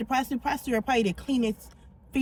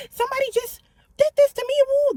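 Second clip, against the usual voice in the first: desperate plea; 4 dB louder than usual. Retold or imitated. Retelling begging help after assault.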